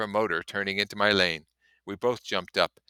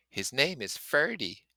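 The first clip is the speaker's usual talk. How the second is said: grave murmur; 7 semitones higher than usual. Acted. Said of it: "in a grave murmur".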